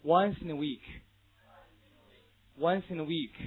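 "Once in a week" slowly run together without gaps; slow model of "Once in a week", consonants carried into the vowels; linked reading. Shown as a demonstration. Teacher drilling students for the listening exam, slow linked reading. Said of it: "read after me".

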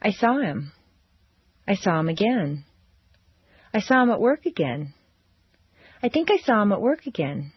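stair-step down from each stressed word; intonation demonstration. Shown as a demonstration. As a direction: stress peaks on the key words, each sentence ending in a fall. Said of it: "building an intonation sentence".

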